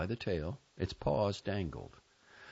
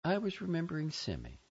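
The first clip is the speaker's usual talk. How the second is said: high, gentle niece voice; understated calm in a higher child voice; 9 semitones higher, faster than usual. A narrator's reading. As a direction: answer calmly as a child. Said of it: "my niece said calmly".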